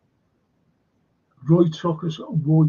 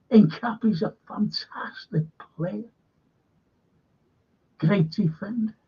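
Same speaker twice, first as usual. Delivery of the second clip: whispered aside; 4 semitones higher, 4 dB quieter than usual. Real, not acted. Admiring aside about a player.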